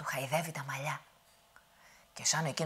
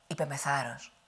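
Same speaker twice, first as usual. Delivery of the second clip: usual speaking voice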